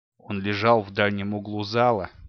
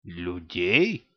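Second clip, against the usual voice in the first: unrecognizable voice; 3 semitones lower than usual. A narrator's reading. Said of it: "голос его нельзя было узнать".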